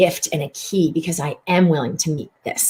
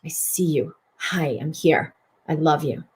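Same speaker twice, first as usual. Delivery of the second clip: softer, lower, gentle self-talk; tender inner greeting; 3 semitones lower, 5 dB quieter than usual. Retold or imitated. Healer greeting her own sadness, soft and tender. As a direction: soothe the sad part like a friend. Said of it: "I breathe out".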